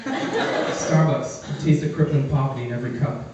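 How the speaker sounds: low, smooth slogan read; mock ad tagline. His own Starbucks commercial, a hint of low voiceover. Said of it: "I would like to do that commercial".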